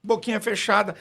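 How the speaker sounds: usual speaking voice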